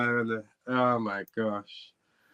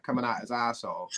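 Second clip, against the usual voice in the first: ordinary talk, nothing marked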